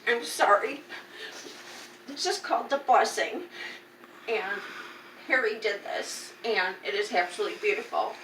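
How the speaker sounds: tearful, voice catching while thanking; choked up, fighting back tears over the gift; crying. Real, not acted. Thanking Harry for the painting, in tears. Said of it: "I'm sorry for crying".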